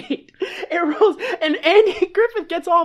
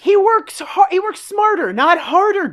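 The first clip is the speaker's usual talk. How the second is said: mock scolding; 5 semitones higher than usual. Acted scolding of Doodles.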